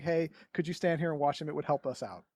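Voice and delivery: polite request. Shown as a demonstration. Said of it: "but a polite".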